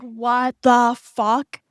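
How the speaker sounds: slow, drawn-out what the fuck; mock disbelief, very slow; stunned disbelief. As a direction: let the shock stretch every word. Learning the guy had a girlfriend.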